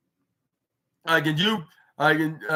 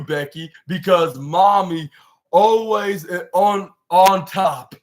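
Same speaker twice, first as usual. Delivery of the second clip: building boast; 2 semitones higher, 5 dB louder, slower than usual. Retold or imitated. Retold boast, rising to climax.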